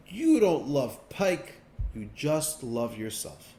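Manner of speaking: slow, dragged-out last words, only a mild mock scream; dying pike's cry. Pike dying in the kitchen, slow mild mock scream at the king. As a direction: spit out the accusation with the last breath. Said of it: "the pike screams out".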